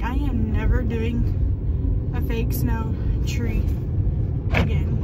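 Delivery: mock husband swearing off fake snow, loud and slow; imitating husband's vow. Imitating husband to viewers about the snow mess, loud and slow. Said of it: "he's like".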